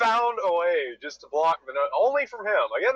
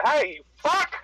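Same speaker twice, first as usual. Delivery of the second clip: dad in traffic; 10 semitones higher than usual. Real, not acted. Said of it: "you're gonna hear my road rage".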